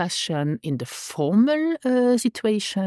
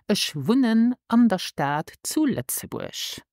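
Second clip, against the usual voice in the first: slow model phrase; 4 semitones higher, slower than usual. Shown as a demonstration. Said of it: "this is".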